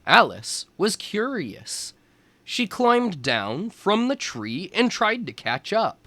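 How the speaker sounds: put-on lively storybook narration for young kids; reading to children. A narrator's reading. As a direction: read it like a teacher at story time. Reads picture book to children.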